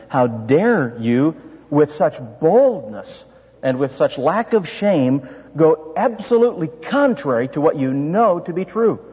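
understated stern apostle; grave rebuke. Retold or imitated. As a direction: rebuke the church solemnly. Paul rebuking the church.

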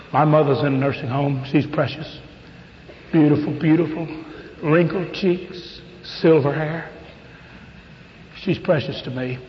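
tender. Real, not acted. Tender talk of his mother.

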